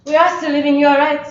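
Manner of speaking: put-on French accent. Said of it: "see a scene of that character".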